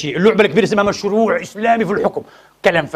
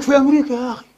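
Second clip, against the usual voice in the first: a hint of a condescending reporter; mocking the journalist. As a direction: mildly mimic a smug journalist lecturing about America. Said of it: "قال لك".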